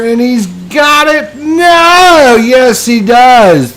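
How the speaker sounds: high, loud triumphant call; excited shout. Acted. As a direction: erupt as the putt drops. Putt drops, commentator erupts.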